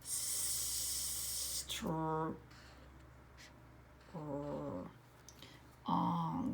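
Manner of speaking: Str and ong said apart; segmenting. Shown as a demonstration. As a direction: split Strong into Str and ong. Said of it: "I hear lots of letters at the beginning".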